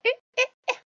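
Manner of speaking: high mocking needling; high singsong teasing; teasing taunt. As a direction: tease her like a smug brother. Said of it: "Loki's just like".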